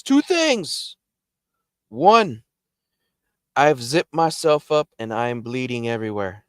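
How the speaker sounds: high-pitched frantic friend; high mock yell, easing toward the end; retold screaming. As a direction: imitate someone yelling out bad news in a panic. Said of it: "he's still screaming".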